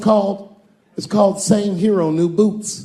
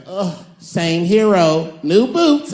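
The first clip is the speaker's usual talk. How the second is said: weary hero sigh; 2 semitones higher, 4 dB louder, much slower than usual. Pretend. Sous chef hero telling rescued people his name, sighing. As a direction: groan it, then fling out the last words.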